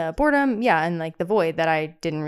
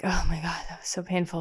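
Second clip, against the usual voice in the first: whispering; 4 dB quieter than usual. Retold or imitated. Retold realization, unvoiced.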